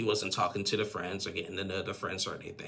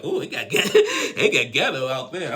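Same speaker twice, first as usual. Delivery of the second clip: laughing hard through the words, high and loud; amused outburst broken by real laughter; 5 semitones higher, 9 dB louder than usual. Real, not acted. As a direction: crack up while reacting. Cracking up at the fight.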